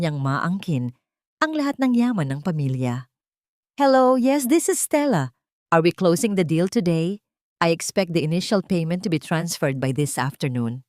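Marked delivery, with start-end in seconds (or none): 3.8-10.8 arrogant. Acted. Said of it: "Ang mayabang niyang bungad".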